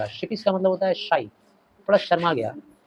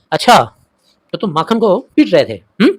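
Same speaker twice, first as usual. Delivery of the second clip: suspicious mother; 3 semitones higher, 8 dB louder than usual. Acted. Mother questions Fatik suspiciously.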